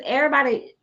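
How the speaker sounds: ordinary delivery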